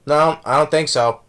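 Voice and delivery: imitated casual deadpan; nonchalant. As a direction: toss it off casually, with a straight delivery. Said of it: "just nonchalantly, casually says".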